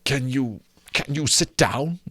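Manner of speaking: hesitant, stammered question; doubtful Scrooge. Acted. Scrooge unsure if a ghost can sit, hesitant stammer. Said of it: "looking doubtfully at him".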